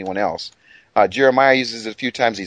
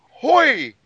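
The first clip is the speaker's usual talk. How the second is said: excited exclamation; 13 semitones higher, 3 dB louder than usual. Shown as a demonstration. Excited Hebrew word reading.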